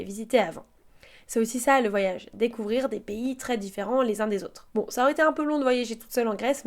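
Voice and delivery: calm, even travelogue read; voiceover narration. Acted.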